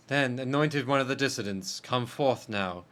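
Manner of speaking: lightly voiced rite leader. A hint of a ceremonial judge. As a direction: call the exile forward gravely.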